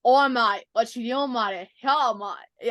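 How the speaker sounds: amateur go at an Australian accent; attempted Australian accent. Shown as a demonstration. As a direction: try out a mock Australian accent. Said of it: "You wanna hear mine?".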